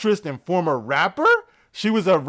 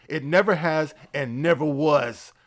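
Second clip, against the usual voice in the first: ordinary delivery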